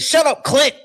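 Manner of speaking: high, loud shrill mock snap; hammed-up impression of her yelling; mock angry woman. Mocking how the host snapped at her guest, high and loud. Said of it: "She said".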